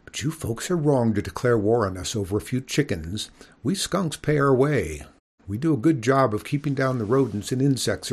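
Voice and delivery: lightly voiced lady skunk lecturing. Miss Mephitis lecturing the farm boy about skunks, lecturing voice. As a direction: explain it like a patient schoolteacher. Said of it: "her lecturing voice".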